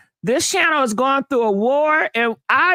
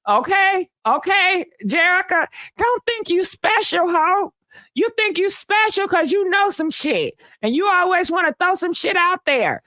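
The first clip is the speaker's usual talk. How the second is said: higher, sassy playful scolding; sassy raised-pitch roast of a viewer; mock telling-off; 5 semitones higher than usual. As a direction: put her in her place, teasing.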